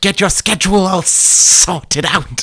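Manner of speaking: high, slow whispered snake villain. Pretend. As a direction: hiss it like a cartoon snake. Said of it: "You sound like a villain from the animated Robin Hood".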